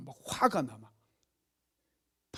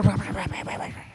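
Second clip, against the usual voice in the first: mimicked nagging; 5 semitones higher than usual. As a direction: imitate a stream of scolding in nonsense syllables. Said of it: "밥 먹을 때 막 잔소리를".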